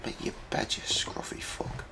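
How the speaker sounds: slow breathy whisper. Pretend. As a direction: hiss it slowly under the breath. Voicing cat in a hushed whisper.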